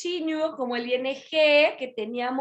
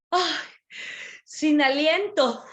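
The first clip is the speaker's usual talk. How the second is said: demonstrated panting between words; out of breath. Shown as a demonstration. Teacher showing students what "sin aliento" means, out of breath. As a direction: act winded, with a puffed exhale. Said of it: "Estás así".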